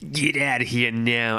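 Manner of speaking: light, put-on New York accent; attempted New York accent. Streamer voicing Aya from New York, attempted New York accent. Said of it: "gonna try to do a New York".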